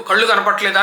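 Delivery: quick Telangana-style retort, retroflex ళ in కళ్ళు; mock Telangana question కళ్ళు కనపట్లేదా; Telangana speech. Scene: teacher quotes Telangana people to show their ళ, Telangana accent. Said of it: "అని అంటారు తెలంగాణ వాళ్ళు".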